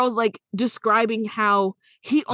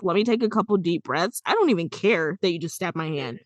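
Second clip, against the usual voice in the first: calm; 4 semitones lower than usual. Retold or imitated. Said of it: "this dude just like".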